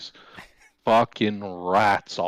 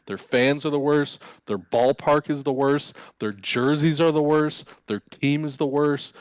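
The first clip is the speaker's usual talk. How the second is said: angry rant; 5 semitones higher than usual. Real, not acted. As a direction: hammer each worst with rising rage. Ranting about White Sox fans.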